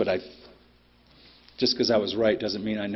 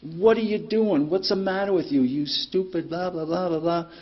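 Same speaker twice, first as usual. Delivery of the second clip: retold angry rant; 8 semitones higher, 3 dB louder than usual. Trucker jumps out at the Volvo driver, mock furious rant. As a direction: re-enact a rant that dissolves into blahs. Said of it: "And I lost my shit".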